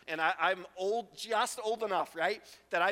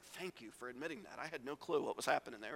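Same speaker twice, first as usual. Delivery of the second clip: relieved disciple; 7 semitones lower, 8 dB quieter, faster than usual. Retold or imitated. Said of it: "somebody else in the group that's like".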